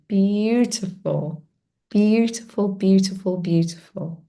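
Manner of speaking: tender. Real, not acted. Softly repeating praise, fading.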